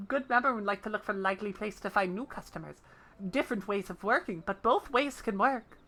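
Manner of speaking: humble little creature, a bit sad; small creature voice. Acted. Jijirun pleading with his brother, soft creature voice.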